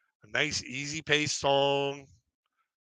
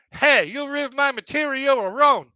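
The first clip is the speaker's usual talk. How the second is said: high, loud call from the crowd; shouting out; 11 semitones higher, 7 dB louder than usual. Retold or imitated. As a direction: yell it across the room at the MC. Heckling the MC from audience.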